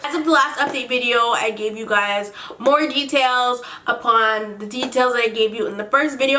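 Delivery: slight lisp, retainer in mouth; talking around a dental retainer. Real, not acted. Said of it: "I'm talking like I have a lisp".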